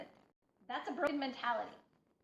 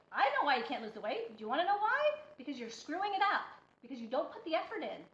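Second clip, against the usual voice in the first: getting mad; faster than usual. Real, not acted. Scolding followers who blame the diet, getting mad. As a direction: let the frustration rise and scold. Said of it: "Oh, I'm getting mad now".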